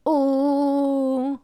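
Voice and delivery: a squeezed, pressed uh; tight U. Shown as a demonstration. Teacher shows a tight U. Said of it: "así".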